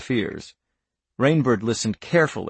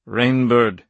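grave; 4 dB louder than usual. Acted. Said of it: "he said gravely".

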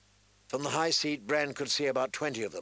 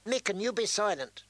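put-on a boy straining for a stern lordly tone, higher; shrill squeak; 9 semitones higher than usual. A narrator's reading. Young lord orders the smith, squeaking high. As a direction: try to command but squeak. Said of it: "tried to sound stern and lordly ... shrill squeak".

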